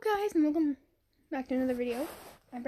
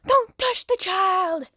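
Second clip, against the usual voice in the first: loud, slow protective yell; slow mock shout at the villain; shouting protectively; 4 semitones higher, 4 dB louder, much slower than usual. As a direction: yell it to guard the child. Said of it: "I'm gonna be like".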